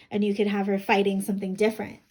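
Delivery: plain reading voice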